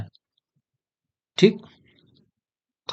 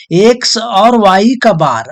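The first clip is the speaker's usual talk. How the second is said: slow dictation; 3 semitones higher, 3 dB louder, much slower than usual. Shown as a demonstration. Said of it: "तो इसको ऐसे पढ़ते हैं".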